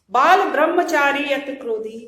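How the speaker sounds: loudly declaimed verse line; verse recitation. Shown as a demonstration. Teacher quoting angry Parashuram to students, loud recitation. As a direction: recite it out for the class.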